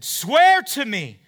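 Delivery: loud, slow, high yell. Acted. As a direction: Saul crying out to David. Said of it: "yells to David".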